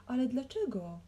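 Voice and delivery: high, protesting question; squeak. A narrator's reading. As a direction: squeak it out in dismay. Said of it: "pisnął biznesmen".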